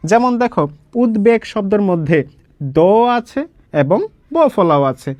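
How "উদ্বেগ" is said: উদ্বেগ with a clear b after the d; both দ and ব sounded. Shown as a demonstration. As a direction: say উদ্বেগ as "ud-beg". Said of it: "দয়ের উচ্চারণ হবে এবং বয়ের উচ্চারণ হবে".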